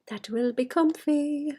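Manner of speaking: slow, breathy whisper of that will be comfy; hushed slow whisper to herself. Acted. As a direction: whisper it slowly like a secret. Whispered repeat of comfy line.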